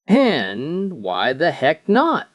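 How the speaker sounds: slow, drawn-out indignant demand. Acted. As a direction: stretch it out in disbelief. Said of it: "the sergeant demanded".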